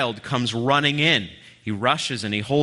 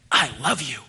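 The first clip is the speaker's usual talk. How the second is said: heartfelt; 4 semitones higher than usual. Shown as a demonstration. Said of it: "bear hug him".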